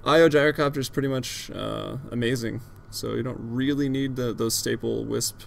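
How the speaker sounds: winded, panting between phrases; out of breath. Real, not acted. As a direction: still out of breath from running. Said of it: "Sorry if I seem out of breath".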